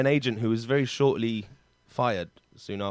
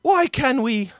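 hammed-up melodrama, word by word; word relay; 3 semitones higher, 7 dB louder, slower than usual. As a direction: act the soap romance one word each. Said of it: "It's a one-word story".

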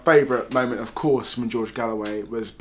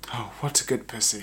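laughing quote; 2 semitones lower, 7 dB quieter than usual. Retold or imitated. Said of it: "she said to him".

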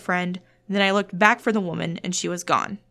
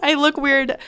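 laughing; 6 semitones higher, 4 dB louder, slower than usual. Real, not acted.

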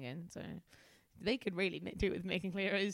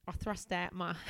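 Australian sliding into cockney; cockney slip; 3 semitones lower, 4 dB quieter than usual. Acted. Narrator describing the handshake, in an accidental cockney accent. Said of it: "I've become too much of a cockney".

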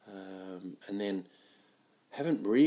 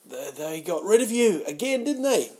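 higher, louder mocking jab rising at the end; teasing retort; 9 semitones higher, 8 dB louder than usual. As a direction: needle him about being dumped again. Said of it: "And they'll go".

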